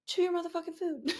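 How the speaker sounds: high, fast, laughing mock scolding. Mom laughing while scolding her son to chew his food. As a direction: scold him through a laugh.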